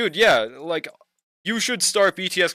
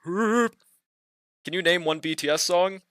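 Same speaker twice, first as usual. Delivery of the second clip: slow put-on deep voice; mock a deep-voiced guy slowly; fake deep voice; 2 semitones higher, much slower than usual. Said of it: "fake a deep voice".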